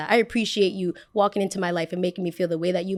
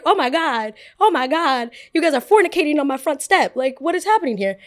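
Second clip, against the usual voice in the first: outraged disbelief; 7 semitones higher, 6 dB louder than usual. Retold or imitated. Catching friends making out outside.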